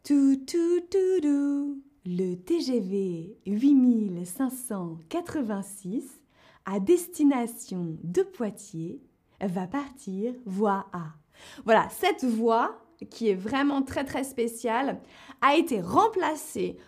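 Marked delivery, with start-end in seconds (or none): 0.0-11.1 station announcement chime then the announcer voice; SNCF station announcer. Shown as a demonstration. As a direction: do the French train station announcement. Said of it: "alors, je vais essayer de la faire". (voix d'annonce de gare SNCF)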